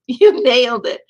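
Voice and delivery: delighted laughing praise for the poet. Real, not acted. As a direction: burst out laughing as you repeat it. Repeats praise, laughing louder.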